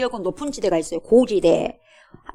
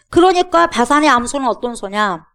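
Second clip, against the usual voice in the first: usual speaking voice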